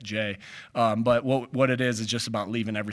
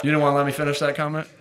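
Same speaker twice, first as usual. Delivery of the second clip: playful teasing; 4 semitones higher, 6 dB louder, faster than usual. Real, not acted. Teasing interrupting reporter.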